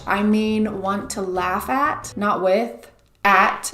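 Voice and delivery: at hit hard against with; stress on at. Real, not acted. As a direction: punch at, not with. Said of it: "when I say want to watch".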